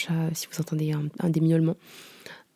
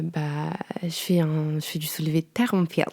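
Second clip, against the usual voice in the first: self-mocking, low-key gym answer; sheepish mumbled reply; 3 semitones lower than usual. Embarrassed beginner answering a laughing gym guy, sheepishly. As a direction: act out a timid, awkward answer. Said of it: "je parle comme ça".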